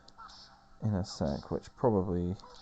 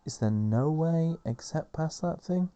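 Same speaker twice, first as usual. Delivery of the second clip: grumpy Dart; 7 semitones higher than usual. Acted. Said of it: "do it in that mood".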